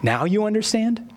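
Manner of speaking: mildly challenging question, lightly acted; ironic confrontation. Jesus looks at his disciples, gently confronting them. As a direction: turn their word back on them. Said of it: "takes this kind of a, a confrontation".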